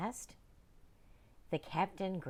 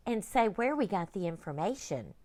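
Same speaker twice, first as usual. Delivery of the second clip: put-on young girl; 5 semitones higher, 4 dB louder than usual. Girl voiced.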